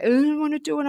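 put-on high-pitched reluctant kid voice; imitating anxious child. Mother voices her anxious ten-year-old son, imitated reluctance. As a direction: mimic a boy balking, pitched well up. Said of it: "'cause his anxiety's so bad".

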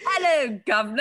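mock British accent with laughter; lightly hammed-up British hello; fake British phone greeting. Repeating her joke British phone greeting. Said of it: "I actually answer the phone like that".

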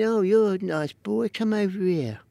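light impression of Ronnie's high voice; a hint of a squeaky gangster; imitating Ronnie. Ronnie Kray charming a teenage doorman, lightly mimicked. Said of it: "That's how he talked".

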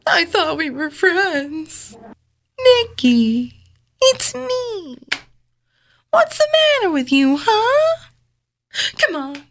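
slow, high, melodramatic begging; hammed-up pleading. Co-host begging Nikki as a friend, hammed-up pleading. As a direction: plead in drawn-out fragments, overdoing the hurt.

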